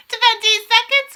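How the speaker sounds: slow, high, ringing call; witch's mounting countdown shout; loud countdown cry. A narrator's reading. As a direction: cry it out, stretching each word. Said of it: "cried the Grand High Witch".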